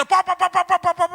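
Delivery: shouted high pap pap beating sounds; loud slapping noises. Acted. Preacher acts out manager beating worker with loud paps. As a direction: imitate blows landing hard.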